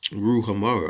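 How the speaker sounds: Ruhamah said as "roo-ha-MAH"; pronunciation as written. Shown as a demonstration. Teacher reading out the word as they say it, Ruhamah pronounced roo-ha-mah. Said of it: "That's how they're saying it".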